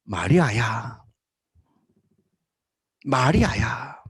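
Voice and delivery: low, soft, tender calling of her name; a quiet, loving voice speaking her name; Jesus's tender call. Acted. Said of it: "창조적 발성은 딱 한마디였습니다".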